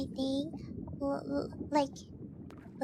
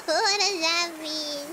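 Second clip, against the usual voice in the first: laughing. Real, not acted. Streamer puzzled by the pearls phrase, giggling question. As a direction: giggle before and after the question.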